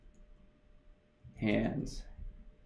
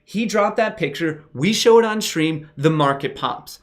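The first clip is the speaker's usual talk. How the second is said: excited; 5 semitones higher, 3 dB louder than usual. Real, not acted. Building market conspiracy hype.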